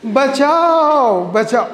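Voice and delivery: high mock cry for help. Shown as a demonstration. Teacher demos a mock cry for help to class. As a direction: call out help as if a thief broke in. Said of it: "कैसे चिल्लाएगी?".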